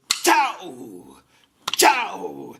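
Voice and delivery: loud herding call. Acted. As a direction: shout the goats into a run. Man claps goats to run.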